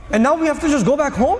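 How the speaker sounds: outraged companions. Retold or imitated.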